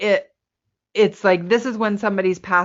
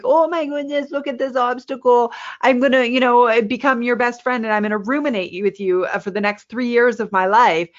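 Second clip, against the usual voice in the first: mock gushing; 3 semitones higher than usual. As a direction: coo over the obstacle like a new best friend. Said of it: "hug them and go".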